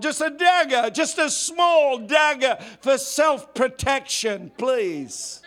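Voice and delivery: pleading soldier. Retold or imitated. Soldier pleading with the sergeant for a dagger, high whining beg. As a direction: beg for one little dagger like a child. Soldier begging to keep weapon.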